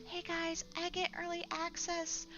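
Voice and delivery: high, soft mocking brag; mock a smug early tester; bragging gamer voice. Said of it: "they're like".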